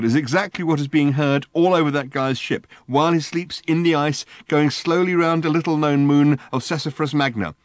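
high, loud, manic friend; a wired alien, high and loud; excitable Ford. Acted. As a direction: bark orders in a giddy frenzy. Ford's voice held in story.

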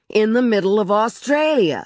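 sarcastic shout, pitched high; angry shouting. A narrator's reading. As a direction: throw it back in exasperation. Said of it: "He was shouting".

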